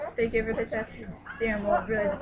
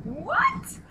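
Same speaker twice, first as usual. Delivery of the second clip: high, rising disbelieving whats, getting louder; shocked; 7 dB louder, much slower than usual. Retold or imitated. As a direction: squeal what in mock disbelief. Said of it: "It's like".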